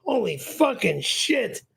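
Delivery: ordinary talk, nothing marked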